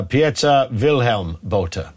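careful, slow name in a slight South African accent; half-hearted South African accent. Shown as a demonstration. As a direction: lightly attempt a South African accent, slowly. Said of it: "why I did that slight accent".

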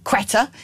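Quetta said KWETT-uh; Quetta, two beats, stressed first; listener's pronunciation. Shown as a demonstration. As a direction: say Quetta with a KW start. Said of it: "Ian calls it".

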